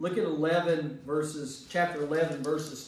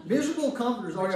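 laughing repeat; 5 semitones higher, 4 dB louder, much faster than usual. Retold or imitated. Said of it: "He, he says".

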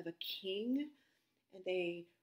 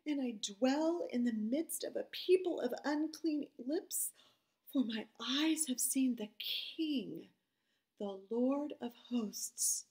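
Isaiah crying out; 3 semitones higher, 7 dB louder than usual. Acted. Isaiah before God's throne, loud anguished lament. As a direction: lament it like a man undone. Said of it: "Then said I, this is Isaiah talking".

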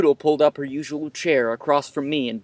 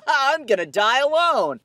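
laughing self-pity; 11 semitones higher than usual. Real, not acted.

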